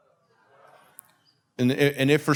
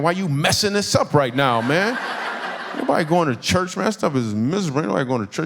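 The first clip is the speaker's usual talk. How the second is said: animated mock protest, pitched up at first; indignant; 3 semitones higher than usual. Comedian balking at manager's church invitation, indignant. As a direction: complain like your big night is being ruined.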